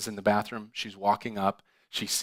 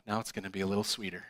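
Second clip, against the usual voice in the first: sly tease; 2 semitones lower, 6 dB quieter, faster than usual. Retold or imitated. Cheeky joke, finger in drink.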